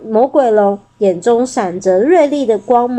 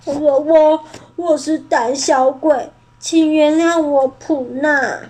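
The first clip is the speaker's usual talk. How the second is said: tearful apology; 4 semitones higher than usual. Acted. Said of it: "边哭边往前走".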